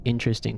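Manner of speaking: "interesting" with a short, reduced middle vowel; new pronunciation. Shown as a demonstration. Showing how they say it now, "interesting" as IN-truh-sting. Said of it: "And now I say".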